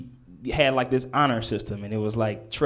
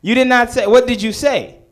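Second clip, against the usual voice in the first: indignant teacher; 9 semitones higher, 6 dB louder than usual. Retold or imitated. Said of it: "she's like".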